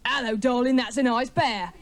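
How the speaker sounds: leering workman's catcall, lightly acted; mock mating call. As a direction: call out a cheeky come-on like a builder. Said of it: "he gently utters the tender mating call".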